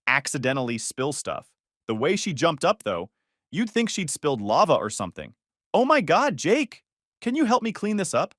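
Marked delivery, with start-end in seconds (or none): 5.7-8.3 high, exaggerated anime-girl cuteness; high-pitched cutesy. Woman asking Jake for help at dinner, high-pitched and cutesy. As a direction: put on a very high, cute girlish plea. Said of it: "Her voice went all high-pitched, like those girls in anime when they're trying to be cute".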